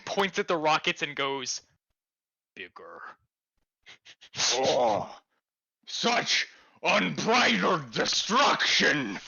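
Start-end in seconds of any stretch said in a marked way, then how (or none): 2.5-3.0 whisper. Acted. Pipsqueak points at rockets. 4.5-9.2 awed. Acted. Awed at the fire.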